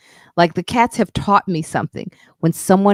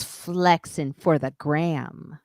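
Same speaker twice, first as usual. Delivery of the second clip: slow mocking jab; much slower than usual. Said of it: "Then he goes".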